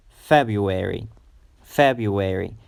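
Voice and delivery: FEB-ruary with FEB held longer; February, lingering on the stressed first syllable. Shown as a demonstration. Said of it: "you have to pronounce it longer".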